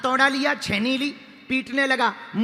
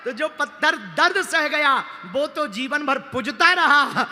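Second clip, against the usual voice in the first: raised, animated sermon voice; forceful preaching; 5 semitones higher, 5 dB louder than usual. Real, not acted. Preacher drawing the moral of two stones, forceful. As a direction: drive the moral home with relish.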